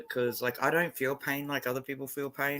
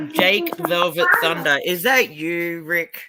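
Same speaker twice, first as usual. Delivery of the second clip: calling out; 3 semitones higher, 8 dB louder, slower than usual. Real, not acted. Hailing a newcomer by screen name.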